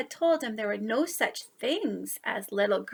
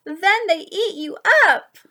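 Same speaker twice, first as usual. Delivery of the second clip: louder and higher, pounce on it; spooky scare line; 6 semitones higher, 9 dB louder than usual. A narrator's reading. Storyteller pouncing on the child with the scary ending. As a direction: jump the listener at the end.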